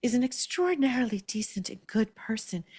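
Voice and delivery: mock baby voice; SJP. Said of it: "I'm gonna do it in S J P's baby voice".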